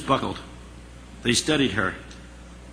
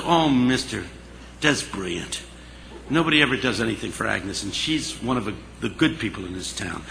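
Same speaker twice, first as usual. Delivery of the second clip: acted soft, lowered voice of gratitude; touched, sincere; 4 semitones lower, 5 dB quieter than usual. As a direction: say it tenderly, sinking lower and softer. Cook touched by the kind plan.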